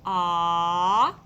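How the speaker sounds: "Ah"를 크게 길게 끄는 소리; vowel sound demo. Shown as a demonstration. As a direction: hold "Ah" out loud and long. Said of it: "what does that sound like".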